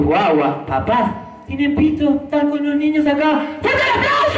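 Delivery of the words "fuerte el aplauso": high shouted call for applause; rally the crowd with a big call. Real, not acted. Pide aplauso al público. (llamado fuerte y agudo al público)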